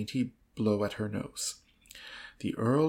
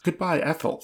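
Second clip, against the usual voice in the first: in a spasm; 5 semitones higher, 6 dB louder than usual. A narrator's reading. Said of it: "said poor Mister Saltina in a spasm".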